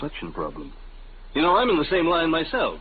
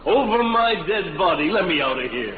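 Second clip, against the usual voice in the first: indignant outburst; 4 semitones higher than usual. Acted. Salesman storms out defiantly.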